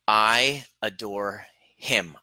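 "I adore him" drawn out very slowly; slow demo. Shown as a demonstration. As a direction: let "I adore him" sink in, word by word. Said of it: "I want you to feel this".

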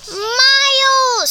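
Miles yelled high and loud; screamed name. Acted. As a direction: shout his name at the door in shock. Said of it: "screamed Billy".

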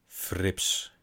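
a breathed, voiceless "Frips."; whispered echo. Retold or imitated. The narrator echoes the mother's word in a whisper.

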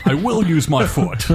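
slow, hammed-up dramatic delivery; overacting like a stage ham; hammy stage actor. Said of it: "didn't overact as much as Daniel Day".

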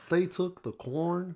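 mock Southern accent. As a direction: stretch it out in a put-on Southern accent. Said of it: "a southern accent".

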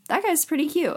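high-pitched retold admiring remark; admiring aside. Woman telling her friend about a man at the club, high-pitched admiring aside. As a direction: lift it high, lightly voicing a quote.

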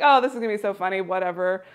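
loud, cocky big talk; mock bravado. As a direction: imitate your own breezy boasting. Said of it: "I was talking a big game".

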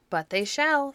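loud, high, defiant; angry retort. A narrator's reading. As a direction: snap back at him. Quarrel between two men.

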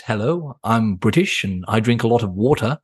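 mock well-spoken British accent, crisp T's; posh British accent. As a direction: put on a proper received British accent. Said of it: "a really well-spoken British person and you speak like this".

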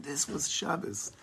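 soft, slow, reverent "This was Shabbos"; hushed awe. Shown as a demonstration. Teacher showing how to savor Shabbos, softly awed. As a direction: breathe it out in quiet wonder. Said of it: "you come out of Shabbos and you're saying".

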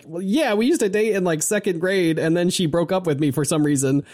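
a light sheepish retelling; sheepish guy imitation. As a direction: own up awkwardly, half embarrassed. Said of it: "Ren Goto's like".

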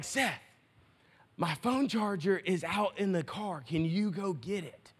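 soft imitation of a wife's late-night murmur; hushed request. Wife asking husband a favour at one in the morning, hushed. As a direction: quietly mimic a sleepy-hour request.

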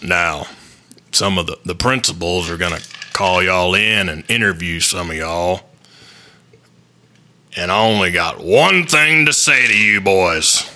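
low, slow coach addressing his players; imitated coach. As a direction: deliver a drawn-out, measured team talk. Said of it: "And he goes".

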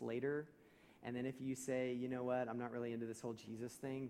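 lightly voiced, quick, sly self-explaining friend; ulterior-motive talker. Preacher mimicking a friend with a hidden agenda, lightly sly and quick. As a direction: rattle it off like a schemer confessing his plan. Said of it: "will sound like this".

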